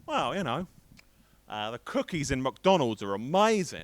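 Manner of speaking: mock Aussie friend defending his country; bad Australian accent. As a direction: put on a rough Australian accent. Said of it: "I can't do accents".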